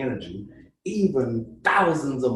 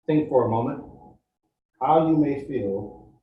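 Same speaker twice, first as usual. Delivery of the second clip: guided meditation. Acted. Guide leading the group through a meditation, calm and steady. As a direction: ease the group into the feeling, unhurried.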